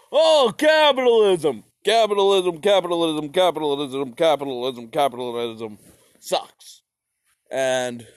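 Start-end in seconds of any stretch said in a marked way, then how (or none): 0.1-6.8 mock Karl Marx. Narrator mocking Marx's rant, loud fading to whisper. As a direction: grumble capitalism over and over, fading to a hiss. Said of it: "He was just like".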